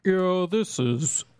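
over walkie talkie. Pretend. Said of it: "breaker, breaker".

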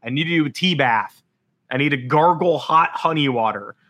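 strained, worn-out voice after screaming; hoarse with almost no voice left. Real, not acted. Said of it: "Like, I have no voice".

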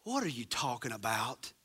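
low, soft sarcastic mutter; mock the people's sarcastic comeback; sarcastic retort. People answering the prophet with sarcastic disbelief. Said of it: "then they're sarcastic and say".

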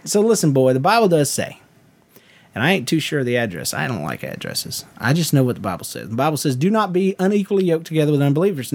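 a hint of Southern preacher; Southern preacher accent. Shown as a demonstration. Preacher answering dating question, light Southern accent. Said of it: "I'll do it in a Southern accent".

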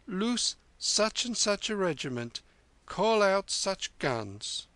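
high, slow mock order from a general; commanding general. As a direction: bark it like an officer giving orders. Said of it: "and he speaks, saying".

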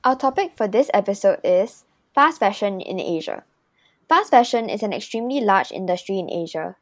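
prepared host read of the topic; scripted podcast intro. Acted. Host introduces fast fashion topic and guest, scripted intro read. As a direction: announce the episode and guest from a script.

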